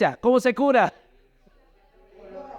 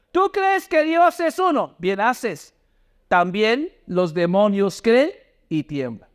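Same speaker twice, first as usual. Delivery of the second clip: slow, raised, deliberate Bible reading; scripture read-aloud; slower than usual. Real, not acted. Preacher leading the congregation through Santiago, slow scripture reading. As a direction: read it out slowly for a congregation to follow.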